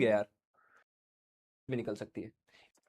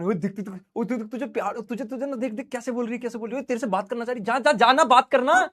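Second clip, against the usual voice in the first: egging a buddy on in a sly undertone; teasing friend. Acted. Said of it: "अब दोस्त क्या करें".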